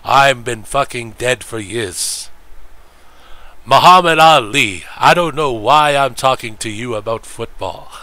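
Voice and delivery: a hint of Cosell calling Ali's name loud; Howard Cosell impression. Streamer answering as a lightly voiced Cosell. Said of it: "Whoa, Howard".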